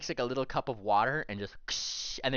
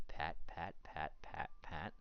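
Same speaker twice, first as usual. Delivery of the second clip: hushed, gentle patting; soft and quiet; 6 semitones lower, 9 dB quieter, slower than usual. A narrator's reading. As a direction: whisper the pats softly. Soft hoof patting sounds.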